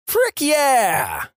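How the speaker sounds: high imitated yell; mock yell. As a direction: fire it back high. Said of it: "Then she yells".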